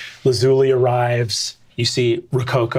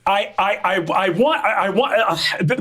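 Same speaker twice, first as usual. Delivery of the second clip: ordinary talk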